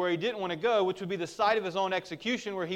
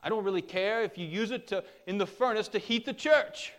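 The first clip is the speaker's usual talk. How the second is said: lightly imitated Welsh accent, pitched up; a hint of a Welsh accent, raised voice; Lloyd-Jones; 5 semitones higher than usual. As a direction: quote him in a higher, half-attempted Welsh lilt. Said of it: "in his Wales accent, says something like".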